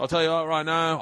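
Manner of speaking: badly faked London accent, talking big; horrible accent. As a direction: put on a bad London accent. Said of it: "I'm doing a horrible accent".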